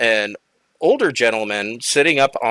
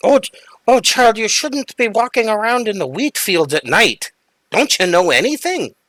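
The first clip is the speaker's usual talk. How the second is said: put-on little old woman voice, much higher pitch; 11 semitones higher than usual. Narrator voicing a little old woman speaking to a lost stranger, little old woman voice. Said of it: "the little old woman says".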